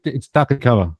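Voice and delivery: "Duck and Cover" in a broad Aussie accent. Shown as a demonstration. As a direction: say "Duck and Cover" the Australian way, "Cova". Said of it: "You just gotta say it with an Aussie accent".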